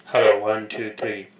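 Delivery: loud mic check into the headset, hello one two three. Real, not acted. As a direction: call it out to test the mic. Testing the headset microphone.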